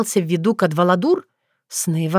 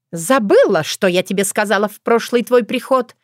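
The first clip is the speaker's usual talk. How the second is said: loud, higher menacing question; threatening; 4 semitones higher, 4 dB louder than usual. Acted. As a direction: lean in with a threat. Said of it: "угрожающе спросила".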